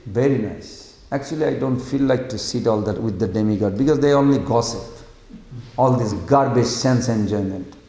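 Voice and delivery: low, understated contentment; Lord Shiva. Acted. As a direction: quietly play a god glad to skip the gossip. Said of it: "Lord Shiva says".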